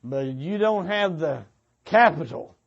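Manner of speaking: normal talking voice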